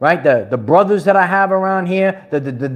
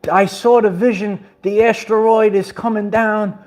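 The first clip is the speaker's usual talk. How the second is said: mocking dramatic YouTubers; 7 semitones higher than usual. Mimicking dramatic video makers to his viewers, high hammed-up gasps. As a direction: ham up a hysterical doomsday channel host. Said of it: "you're gonna see these people".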